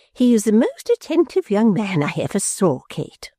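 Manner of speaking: high-pitched doting matron; gushing mother. A narrator's reading. Mother praising a young man to daughter.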